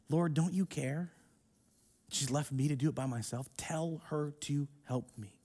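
quiet complaint. Acted. Martha's plea, said quietly and wearily. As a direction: say it low, tired out. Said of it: "Is that you?".

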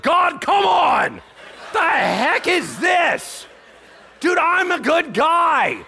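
high, loud, drawn-out complaint to heaven; hammed-up aggrieved yell; exasperated protest. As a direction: wail in mock outrage at the unfairness. Paul's imagined protest to God.

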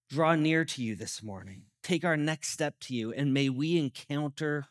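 prayer. Acted. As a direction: pray it gently, trailing off at line ends. Pastor leads a closing prayer.

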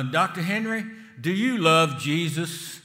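a hint of a church lady laying it on; sweetly coaxing question. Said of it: "this is how she would say it".

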